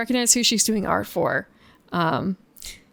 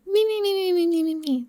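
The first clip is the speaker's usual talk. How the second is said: high snore whistle imitation; 9 semitones higher than usual.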